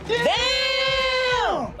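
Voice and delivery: surprised damn. Real, not acted. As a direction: blurt it out, stunned. Reacts to a surprising story.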